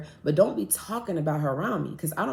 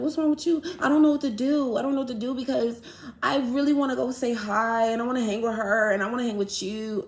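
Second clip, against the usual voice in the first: higher, pleading friend who can't decide; mock whiny friend; 5 semitones higher than usual. Friend torn between two girls, lightly voiced high plea.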